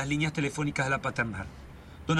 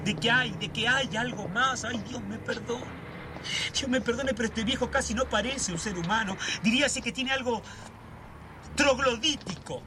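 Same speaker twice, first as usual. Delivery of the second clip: much higher, feverish ranting; agitated; 8 semitones higher than usual. Acted. Brother raving to his sister about the old man, agitated. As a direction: spiral into a frantic conspiracy rant. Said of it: "Estás muy agitado".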